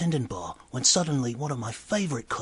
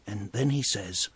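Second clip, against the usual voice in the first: ordinary talk, nothing marked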